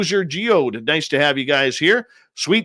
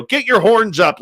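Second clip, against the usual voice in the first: higher, punched-out show kickoff; rallying call; 7 semitones higher, 4 dB louder than usual. Real, not acted. Host rallies listeners to start the show, calling out. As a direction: call it out to fire up the audience.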